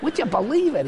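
a hint of a Cleveland catchphrase. Older friend's catchphrase, a light Cleveland accent. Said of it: "in a very sort of Cleveland voice".

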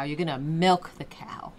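slow self-correction leaning on "milk"; "milk" singled out as the right word, slowly; stress on milk. Real, not acted. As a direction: correct yourself, drawing out "milk". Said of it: "What am I saying".

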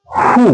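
হু said with h and a long oo, no w; silent w. Shown as a demonstration. Teacher models who for viewers, silent w. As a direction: say হু high and drawn out, like blue with an h. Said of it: "এইচ pronounce হবে".

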